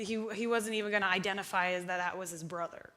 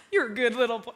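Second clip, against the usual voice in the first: John Crowder impression; 5 dB louder, faster than usual. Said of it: "how does he even talk".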